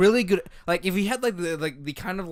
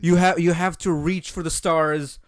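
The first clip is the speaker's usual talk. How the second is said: mock-grand speech; 5 dB louder than usual. Mock-grand speech on art to co-host.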